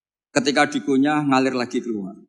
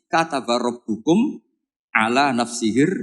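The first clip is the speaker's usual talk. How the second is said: slow, measured Quran recitation; 3 semitones lower, slower than usual. Acted. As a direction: chant the verse out slowly. Reciting the verse again.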